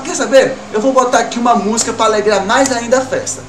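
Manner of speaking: rally the party as you put the music on; party guy excitement. Retold or imitated. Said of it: "Aí o camarada". (animado e mais alto, convidado empolgado na festa)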